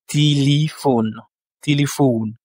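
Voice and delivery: téléphone in Russian: ti-li-FON, stress on the O; téléphone with both E's said as I; Russian pronunciation. Shown as a demonstration. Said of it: "l'accentuation se situe sur le O".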